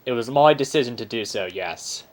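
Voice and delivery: Aussie bear voice. Acted. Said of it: "This is an Aussie bear".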